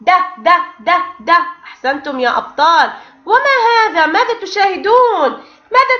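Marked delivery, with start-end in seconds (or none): 0.0-1.3 crisp repeated د with short a; letter sound demo. Shown as a demonstration. Teacher sounding out dal with fatha for the class. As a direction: tap out د د د like a drum. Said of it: "وصوته".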